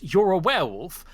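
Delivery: frightened. Acted. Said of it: "something she is now afraid of".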